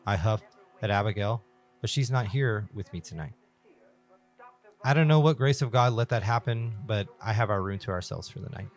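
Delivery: measured first-person story reading; horror story narration. A narrator's reading. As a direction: narrate it carefully, phrase by phrase. Reads horror story aloud.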